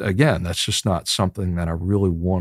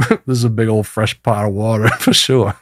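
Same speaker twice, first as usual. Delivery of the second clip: laughing; 2 semitones higher than usual. Real, not acted. Laughs through his own joke.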